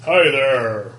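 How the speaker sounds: elf voice. Acted. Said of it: "Well, the elf voice?".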